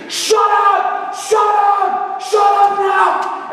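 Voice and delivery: imitated high, long-held yells; mock furious scream, stretching the last word; screaming heckler. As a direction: holler it to drown out the speaker. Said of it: "and he's still screaming".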